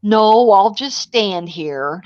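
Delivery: slow, drawn-out mock refusal; stubborn refusal. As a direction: imitate a sulky husband, stretching the words. Husband's stubborn refusal, repeated.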